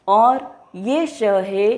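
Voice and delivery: very slow और ये श है; slow letter demo. Shown as a demonstration. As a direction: draw out श from the roof of the mouth. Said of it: "मूर्धा से बोलने के कारण".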